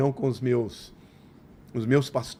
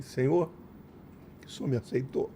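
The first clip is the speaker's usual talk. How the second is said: softer, quieter words of wonder; hushed awe; 2 semitones lower, 8 dB quieter than usual. Retold or imitated. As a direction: murmur it to God in disbelief. Quiet realization on bus. (voz baixa e emocionada, falando com Deus no ônibus)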